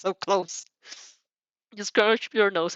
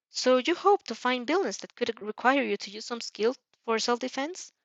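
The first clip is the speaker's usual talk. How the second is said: a lightly higher, polite principal's voice; Nezu voice; 3 semitones higher, 3 dB quieter than usual. Acted. Nezu questioning the student over tea, lightly higher voice.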